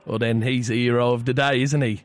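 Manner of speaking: chatty fake English caller; poor English accent. Prank caller slips song lyrics to cafe, poor English accent. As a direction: ramble on in a badly faked English accent. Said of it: "disregard the piss poor English accent".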